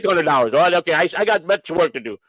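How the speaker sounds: put-on light Polish-accented brush-off. Inspector turning down the money, Polish accent. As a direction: lightly imitate a busy Polish mechanic. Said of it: "he sounded Polish to me".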